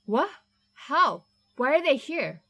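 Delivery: alarmed. Acted. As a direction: demand answers in a scared rush. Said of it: "Martin let out a shaky breath".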